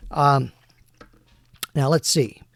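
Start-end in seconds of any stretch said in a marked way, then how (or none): none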